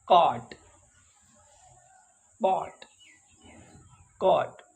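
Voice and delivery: कॉट and पॉट with a rounded short o; short o sound. Shown as a demonstration. Teacher drilling the short o vowel. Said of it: "ओ की आवाज़ निकालता है".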